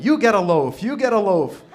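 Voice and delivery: big, high talk-show giveaway shout; Oprah. Acted. Jesus handing out bread to the crowd, Oprah-style shouting. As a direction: holler it out to a whole studio audience. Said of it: "He became like Oprah".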